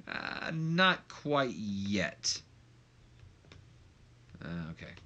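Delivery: breathy whispered aside; slow whisper to yourself. Real, not acted. Checking the ratings off-mic, whispered. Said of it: "aside to himself".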